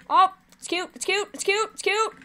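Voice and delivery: high squeaky cooing over something cute. Real, not acted. Gamer cooing at a cute character on screen.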